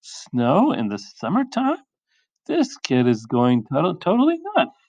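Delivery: high swooping disbelief; incredulous parents. Acted. Parents reacting to summer snow, mock incredulous. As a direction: leap up in pitch on the key words.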